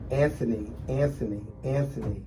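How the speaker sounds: softly calling the name, growing fainter each time; a weak voice calling from out of sight, fading away; faint distant calling. Retold or imitated. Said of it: "I heard this very faint sound".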